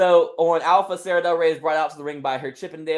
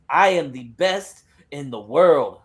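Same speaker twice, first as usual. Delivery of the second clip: slow, lower, weighty declaration; emphatic boast; 4 semitones lower, 4 dB louder, slower than usual. Acted. Wrestler claims the title, slow and emphatic. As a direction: land each word as a boast.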